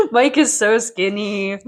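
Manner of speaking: laughing it out, slow. Real, not acted. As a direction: repeat it while chuckling. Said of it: "laughing repeat".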